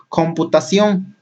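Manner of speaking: COMPUTACIÓN slowly divided into its syllables; slow, measured breakdown of "Computación". Shown as a demonstration. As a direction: draw out each syllable of "Computación". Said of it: "vamos a dividirlo".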